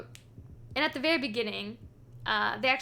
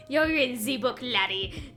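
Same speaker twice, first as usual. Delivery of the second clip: put-on pirate accent; slower than usual. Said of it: "It's like a pirate accent".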